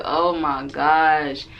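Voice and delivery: slow, low, weary groan of a phrase; a long-suffering sigh in words; drawn-out exasperation. Retold or imitated. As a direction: let the words sag with disbelief. Reacting to the awkward dance.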